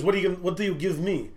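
lightly imitated Russian accent; Russian roommate accent. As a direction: ask as the Russian roommate, broken English accent. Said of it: "this Russian roommate was fucking scary".

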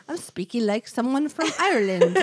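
Irish accent slipping toward Southern; bad Irish accent. Shown as a demonstration. Host shows co-host her failed Irish accent. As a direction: try Irish and miss into Southern. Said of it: "Whenever I do an accent, it falls into some sort of Southern".

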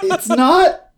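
laughing. Real, not acted. Laughing reply.

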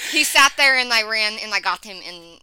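light mock Russian accent; soldier's report, faked Russian accent; Nova, Russian accent. Dog explaining how it caught the bird, mock Russian accent. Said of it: "like a fucking Russian soldier".

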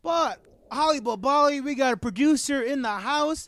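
buzzed and giddy announcing a guest. Real, not acted. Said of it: "I'm a little tipsy".

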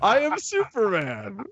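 high, monotone robot Superman; flat mechanical robot voice. Pretend. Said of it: "In robot voice".

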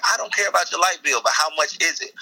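high-pitched comic protest; mock exasperation. Robber to lady about her light bill, exasperated.

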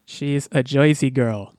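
slow, hammed-up New Jersey accent, barely there; a deliberately terrible New Jersey drawl, played for a joke; a joking host's lightly done New Jersey accent; bad New Jersey accent. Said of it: "worst jersey accent I've ever done".

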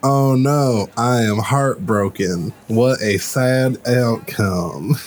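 mock heartbreak, slowing at the end; sarcastic. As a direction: feign deep disappointment without meaning it. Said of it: "were you being sarcastic?".

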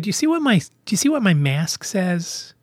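pointed, irritated challenge; getting angry. Retold or imitated. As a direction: start to get angry at someone. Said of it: "I started to get angry".

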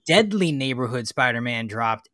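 hammed-up Southern twang; put-on Southern accent. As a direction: carry on in a pretend Southern accent. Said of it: "not like his accent".

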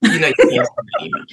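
very high, fast teasing warning; mock ancestor warning. Ancestors scolding her over an angry email, high and teasing. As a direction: squeal it like a scolding auntie. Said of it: "I also feel them saying".

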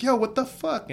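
high-pitched indignant yelp, acting it out; mock-outraged exclamation at normal volume; retold shocked outburst. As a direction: re-enact a stunned protest, pitch jumping up. Retells own shock after being hit.

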